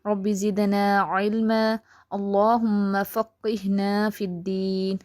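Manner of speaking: slow, measured Arabic recitation; slow recited prayer. Acted. Teacher opening class with a dua, slow recitation.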